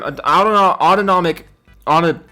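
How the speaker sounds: tripping over the word autonomic; tongue-tied stumble. Real, not acted. Misreading a fan name, he stumbles over autonomic. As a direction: stumble and restart on Auto-. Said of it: "I immediately trip over my own fucking mouth".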